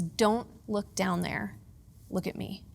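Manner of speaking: gently steady a frightened wife; husband calming her on the slope, soft and slow; calm reassurance. Retold or imitated. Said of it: "and he says".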